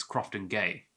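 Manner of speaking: Crofton Gay, last word with an ay vowel; researched pronunciation. Shown as a demonstration. Host giving the researched name, ay pronunciation. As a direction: say "Crofton Gay" with Gay rhyming with day.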